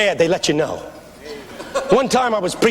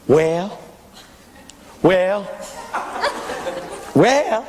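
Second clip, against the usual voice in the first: imitated church women; much slower than usual. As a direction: mimic church women approving the preacher. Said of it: "the women in my church".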